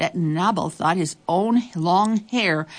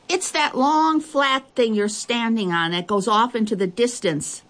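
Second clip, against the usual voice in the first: put-on little girl voice; 5 semitones higher than usual. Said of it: "the little girl's voice came again".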